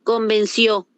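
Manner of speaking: "Convenció" with the stress on its final "ció"; stress on last syllable. Shown as a demonstration. Teacher shows class why "Convenció" is aguda, stressing final "ció". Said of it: "Ese cio sería aguda".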